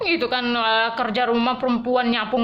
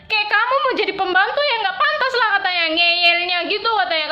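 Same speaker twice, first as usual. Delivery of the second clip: louder, higher tearful telling; near tears; 6 semitones higher, 4 dB louder than usual. Real, not acted. Recalling the boss's insult, tearful and raised. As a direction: let the hurt break through.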